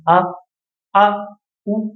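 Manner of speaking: आ and ऊ each cut short, set apart by pauses; isolated, brief vowel demonstration of आ, ऊ. Shown as a demonstration. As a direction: give आ and ऊ only a brief moment. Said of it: "कम समय लगा ना".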